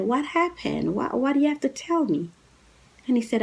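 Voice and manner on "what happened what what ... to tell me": high, urgent surprised asking; startled question. Retold or imitated. The woman asking her ex what he must tell her, startled and high. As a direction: ask fast, pitched up in alarm. She reacts to his confession.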